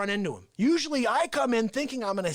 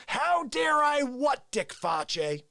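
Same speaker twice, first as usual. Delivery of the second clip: mock indignation; 5 semitones higher, much slower than usual. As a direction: demand it with mock outrage. Same words, now said aloud.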